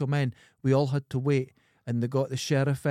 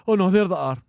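relieved exclaim; 4 semitones higher, 9 dB louder than usual. Retold or imitated. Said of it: "and goes".

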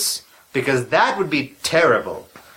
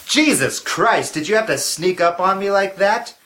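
startled; 4 semitones higher than usual. Acted. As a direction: jump and gasp it out. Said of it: "let me catch my breath".

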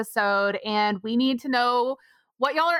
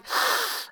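gasp. Retold or imitated. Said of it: "I was just like".

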